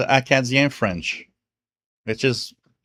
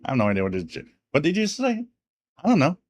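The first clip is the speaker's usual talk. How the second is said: mock bafflement; faster than usual. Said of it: "that you're like".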